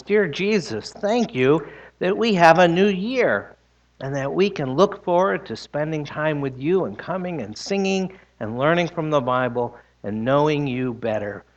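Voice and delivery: hushed, fading prayer voice. Acted. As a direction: pray gently with the children. Leads children in prayer.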